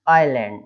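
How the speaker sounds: आइलैंड as "eye-land", firmly modelled; silent s. Shown as a demonstration. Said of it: "ऐसा पढ़ेंगे". (आइलैंड, स के बिना)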